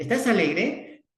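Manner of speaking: put-on light up as if sharing the child's joy; playful high question to a little one; cheerful child-directed question. Shown as a demonstration. Therapist asks child if happy.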